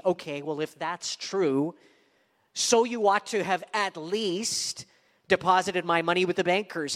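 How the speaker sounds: drip with sarcasm; sarcastic. Acted. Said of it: "sort of a sarcastic way".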